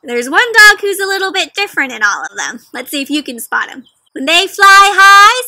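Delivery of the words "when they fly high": high and slow, voice lifted on high. Acted. Teacher reading to children, voice lifted high for flying. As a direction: lift the voice up high to match the words.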